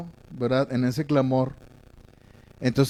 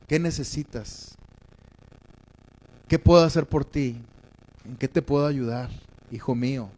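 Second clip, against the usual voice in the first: tender fatherly offer; 2 semitones lower, 4 dB quieter than usual. Acted. God tender with his son, offering help gently. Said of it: "Dios es tierno contigo".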